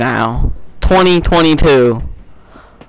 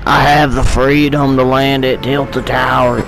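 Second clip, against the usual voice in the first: half-successful Southern country twang; country accent. Pretend. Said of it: "talk in my country accent".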